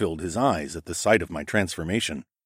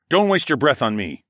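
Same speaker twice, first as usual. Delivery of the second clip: raised, dismissive scoff; 6 semitones higher, 4 dB louder than usual. A narrator's reading. Fighter dismisses the mage's plea, scoffing. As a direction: wave him off with scorn. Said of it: "I scoffed".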